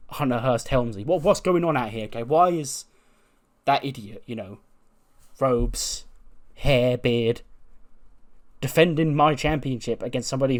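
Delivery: mildly heated, acted wrestling promo; indignant confrontation. Wrestler demanding his title shot from the boss, indignant. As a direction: push the grievance at him, emphatic bursts.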